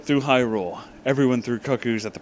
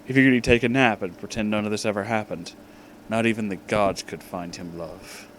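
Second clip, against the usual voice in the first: usual speaking voice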